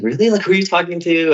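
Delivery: eager, delighted family asking who it is; excited parents. Retold or imitated. Excited parents asking about boyfriend.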